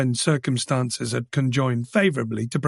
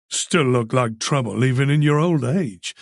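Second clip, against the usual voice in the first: mouth full; 2 semitones lower than usual. Acted. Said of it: "through a mouthful of egg and toast".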